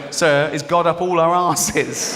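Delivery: a cheeky pupil needling the teacher; mock-innocent pupil; slow mock-innocent schoolboy question. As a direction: slowly ask with fake innocence, laughing. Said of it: "I was going".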